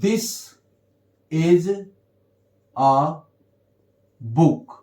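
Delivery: word by word, "a" pronounced as a schwa "uh"; weak form in sentence. Shown as a demonstration. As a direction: say "a" as "uh", with long pauses between words. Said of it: "इसका sound अ हो जाएगा". ("a" को "अ" बोलें, हर शब्द अलग)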